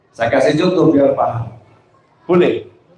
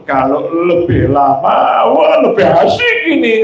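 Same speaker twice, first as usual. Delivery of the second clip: happy, delighted. Acted. Husband enjoying his wife's massage, sing-song delight. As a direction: ham up the husband's pleasure. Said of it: "sama seneng ngomongnya".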